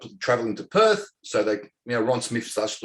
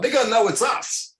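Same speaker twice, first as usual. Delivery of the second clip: laughing; 13 semitones higher, 4 dB louder than usual. Real, not acted. Retelling his warning to teammates, laughing. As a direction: quote breaks into high laughter. Laughing while quoting self.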